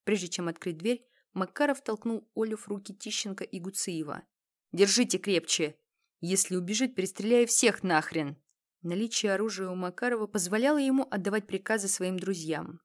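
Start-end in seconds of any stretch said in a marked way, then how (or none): 4.7-8.4 threatening order. Acted. Armed leader orders friends.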